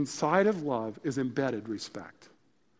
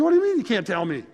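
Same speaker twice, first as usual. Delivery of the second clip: retold anger; 6 semitones higher, 7 dB louder, faster than usual. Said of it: "And she got mad".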